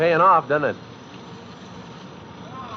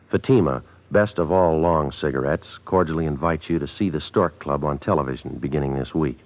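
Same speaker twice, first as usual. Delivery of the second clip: ad read. Acted.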